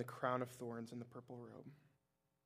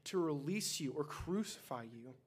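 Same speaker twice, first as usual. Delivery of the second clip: higher and louder, a ruler's menace; threatening demand; 4 semitones higher, 4 dB louder than usual. A narrator's reading. Pilate warning Jesus of his power, loud high threat. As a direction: lean over him and threaten. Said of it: "Pilate demanded".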